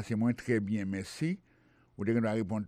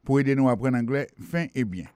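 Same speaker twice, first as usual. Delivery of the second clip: radio lesson read. Acted. Presents lesson to listeners.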